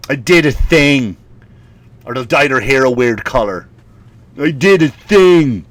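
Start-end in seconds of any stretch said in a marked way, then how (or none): 0.1-1.2 slow, self-important catchphrase; mock stock saying. Poster showing a new car, slow mocking imitation. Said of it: "certain sayings that they get". 4.4-5.7 slow, punched-up catchphrase; mock the boast emphatically; mock stock saying. Poster with dyed hair, slow emphatic mockery. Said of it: "certain sayings that they get".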